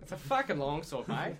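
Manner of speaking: lightly hammed Australian; Australian accent. Game master riffing on the joke, mild Australian accent. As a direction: say it with an Australian twang. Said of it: "It's just Australian characters".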